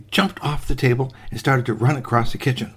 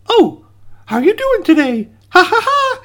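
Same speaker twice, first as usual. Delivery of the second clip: loud squeaky greeting into high cackle; cheery gingerbread boy; 5 dB louder than usual. Acted. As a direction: chirp hello, then laugh mockingly. Cookie greets raccoon, laughs.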